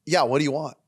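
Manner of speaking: impatient mock yeah, what do you want; curt bartender. Bartender to pastor, impatient and curt. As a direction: brush the customer off. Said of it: "She goes".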